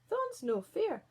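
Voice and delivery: high, loud, slow protest; cross dwarf Greety. Acted. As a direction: bark it at the intruder. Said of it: "said Greety".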